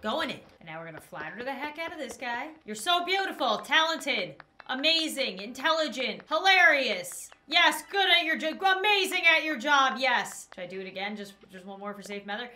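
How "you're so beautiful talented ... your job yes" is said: loud, gushing compliments laid on thick; butter him up shamelessly; hammed-up flattery. Flattering the villager so he'll blush, loud and gushing.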